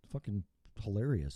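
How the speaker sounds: whispered aside; soft whispered amusement. Real, not acted. Whispered aside after story.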